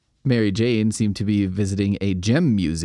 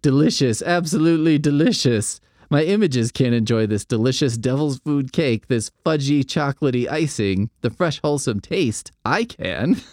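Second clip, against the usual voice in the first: ecstatic gushing; 4 semitones higher than usual. Acted. Villain raves over cupcake.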